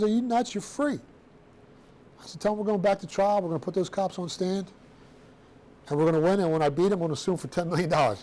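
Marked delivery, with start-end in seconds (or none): 0.0-1.0 pitched high, mock disbelief; incredulous lawyer. Lawyer stunned at refusing deal. 2.4-8.2 mock tough-guy bluff; pushing the bluff, raised pitch; acting tough. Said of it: "I'm acting all tough".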